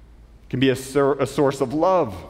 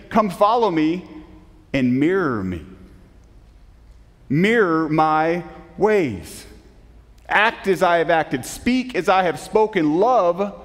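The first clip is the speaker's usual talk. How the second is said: solemn voice of Jesus; 5 semitones higher, slower than usual. Acted. Preacher voicing Jesus' call.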